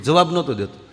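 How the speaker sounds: normal talking voice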